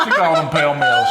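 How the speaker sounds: laughing. Retold or imitated. Quoting her mocking phrase, laughing.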